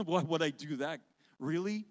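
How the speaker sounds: amused disbelief with a laugh. Retold or imitated. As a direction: laugh it off, incredulous. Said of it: "I almost laughed out loud".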